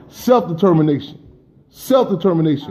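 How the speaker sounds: self-determination, repeated for emphasis; stressed word. Shown as a demonstration. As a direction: lean hard on self-determination. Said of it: "I wanna stress this word".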